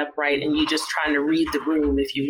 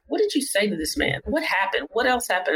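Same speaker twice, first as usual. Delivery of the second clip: higher-pitched urgent questions, acted lightly; retold questioning; 5 semitones higher than usual. Doctor questioning resident about the patient, retold questioning. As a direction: imitate a colleague pressing for answers.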